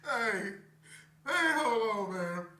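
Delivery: laughing fit, trying to recover; fighting back giggles; real laughter. Real, not acted. Vlogger trying to regain composure, still laughing. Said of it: "Let me get myself together".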